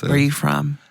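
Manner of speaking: light American small-talk voice; American interviewer, lightly acted; American accent. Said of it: "I think we should do American".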